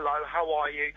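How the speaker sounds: mock careful greeting to a foreigner; lightly slowed, simplified-sounding hello; slow talk for foreigners. Brit greeting someone from another country, slow and careful. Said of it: "tend to speak slow".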